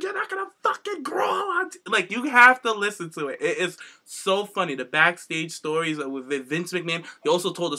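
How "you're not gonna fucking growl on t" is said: high, breaking laughter through the words; real giggles over a mock outraged line; laughing through a quote. Real, not acted. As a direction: fight off laughter mid-quote. Quoting Vince while laughing.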